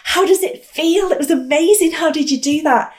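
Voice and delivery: high excited calling out; shouting reporter. Retold or imitated. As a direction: shout to a frog who won't turn. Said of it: "I'm shouting at this frog".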